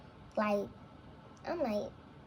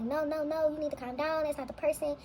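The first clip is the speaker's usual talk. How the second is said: higher, insistent retold granddad; urgent interjection; 5 semitones higher than usual. Granddad telling hysterical grandchild to calm down, urgent and insistent. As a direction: cut in firmly, pitched up, to stop the panic.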